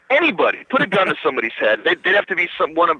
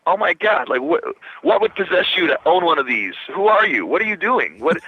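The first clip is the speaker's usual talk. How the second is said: freaking out; 4 semitones higher than usual. Retold or imitated. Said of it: "freaking out".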